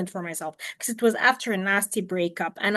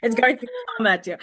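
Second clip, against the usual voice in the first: mock warning; 4 dB louder than usual. Playful warning of sensitivity.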